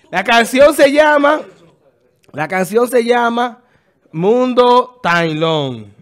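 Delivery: voz alta y alargada, anunciando el canal; proclámalo con fuerza, estirando las palabras; anuncio enfático. Real, not acted. (anuncio en voz alta y lenta)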